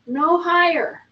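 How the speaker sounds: usual speaking voice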